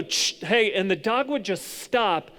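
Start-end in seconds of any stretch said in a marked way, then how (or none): 0.0-0.7 quick dog-trainer correction; a hush and a brisk "hey"; Cesar Millan. Acted. Preacher imitating a trainer stopping a dog, brisk command. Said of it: "because he would go".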